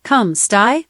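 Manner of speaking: sample greeting spoken in Italian; Italian accent. Shown as a demonstration. Assistant giving the host accent samples, Italian accent. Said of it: "Italian accent".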